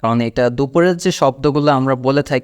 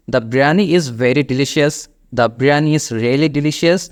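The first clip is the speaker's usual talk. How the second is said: slowly, ending in a rise; measured wrong phrasings; slow wrong examples; much slower than usual. Shown as a demonstration. Teacher listing mistakes to avoid, slowly. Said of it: "এমন কোনো শব্দই use করার কোনো দরকার নেই".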